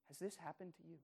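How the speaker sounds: repeated softly but a bit fuller, stress on this; repeated question. Real, not acted. Pastor repeats the personal question to listeners, pressing. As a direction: ask it again, pressing gently. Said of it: "I need to ask this question".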